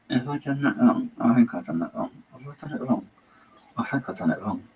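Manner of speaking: "Have I done that wrong?" asked in a mild put-on silly voice; muttering to yourself in a funny voice over the puzzle; this odd voice. Real, not acted. Building the shelf, asking himself in a light silly voice. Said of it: "I don't know why I'm talking in this voice".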